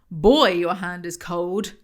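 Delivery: put-on loud, slow, drawn-out "Boy"; lightly hammed-up leading man; mock Christian line. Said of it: "Since when does he talk like this?".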